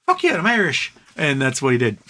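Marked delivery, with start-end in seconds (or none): 0.1-0.9 higher, a bit louder mock boast; a hammed-up proud Irish whoop; mock proud cheer. Imagining Biden boasting in Ireland, mock proud cheer. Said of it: "to be like".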